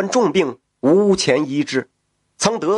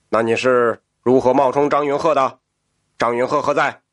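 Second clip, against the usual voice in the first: lower, measured imperial tone; emperor voice; 5 semitones lower than usual. Acted. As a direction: speak as a curious emperor. The emperor asks, startled.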